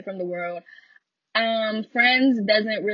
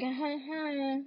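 fake laugh; 5 semitones higher, 8 dB quieter than usual. Imitates their polite fake laugh.

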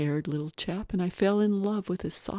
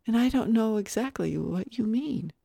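put-on higher, earnest child voice; polite little boy; 6 semitones higher than usual. Little boy questioning the guest, politely puzzled. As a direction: speak as a small, courteous boy.

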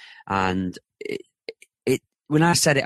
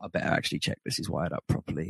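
whispered thought; 4 semitones lower, 8 dB quieter, faster than usual. Retold or imitated. Thinking to himself after hanging up.

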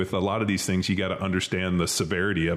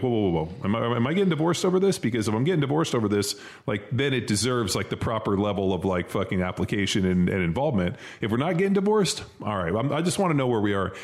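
worked-up lawyer; 2 semitones higher than usual. Retold or imitated. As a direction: rattle it off like a man fending off a fight. Retells lawyer Mike on arguments.

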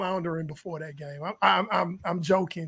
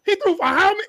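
incredulous boss; 10 semitones higher, 5 dB louder, faster than usual. Retold or imitated. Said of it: "they was like".

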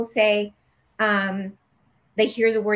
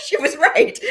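laughing through the words, louder and higher; 5 dB louder than usual. Real, not acted. She laughs, recalling her Reiki teacher, louder and higher. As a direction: burst out laughing as you say it.

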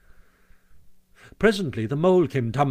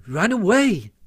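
higher, questioning repeat; indignant echo; 8 semitones higher, 4 dB louder, slower than usual. A narrator's reading. Mole as washerwoman answers the sergeant, indignant. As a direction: throw the order back in disbelief.

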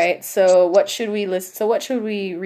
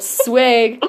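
yelled swag; 4 semitones higher, 6 dB louder than usual. Acted. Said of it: "He yelled".

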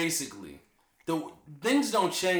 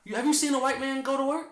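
laughing; 10 semitones higher than usual. Real, not acted. Laughing at a friend's remark.

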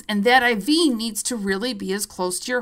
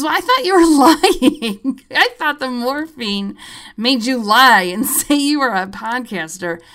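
laughing admission; 5 dB louder than usual. Retold or imitated. Tech confesses to the patient, laughing. Tech admits doubting her.

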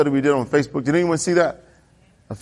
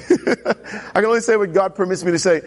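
sheepish laugh. Retold or imitated. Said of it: "After the last encounter, right".

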